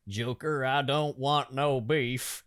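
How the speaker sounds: put-on Southern American accent. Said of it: "you just nailed the, the accent".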